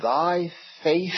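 faith drawn out and stressed in Thy faith; emphasis on faith. Shown as a demonstration. Preacher reading Jesus to the woman, weight on faith. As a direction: lean slowly into faith. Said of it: "on the word faith".

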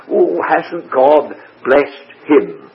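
slow, drawn-out mock marvelling; imitated admiration. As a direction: lightly act out admirers marvelling at someone, slowly. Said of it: "and we say".

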